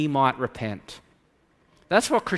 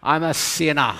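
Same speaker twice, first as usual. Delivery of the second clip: mock skeptic; 2 semitones lower than usual. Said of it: "some of you are saying".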